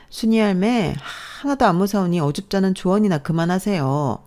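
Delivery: high, contemptuous brush-off; dismissive sneer. Acted. Sister-in-law brushing off mother-in-law's advice, dismissive. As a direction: wave the old woman off.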